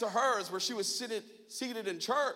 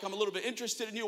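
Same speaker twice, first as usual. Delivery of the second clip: imagined smile meaning; much faster than usual. Retold or imitated. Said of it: "I can't tell if it's like a smile".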